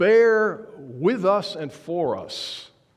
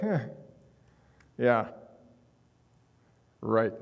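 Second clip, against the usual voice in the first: mock doubtful huh, yeah, right; skeptical; 4 semitones lower than usual. Disciples doubting the women's report, skeptical scoff. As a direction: imitate the doubting disciples dryly. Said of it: "you can hear the skepticism".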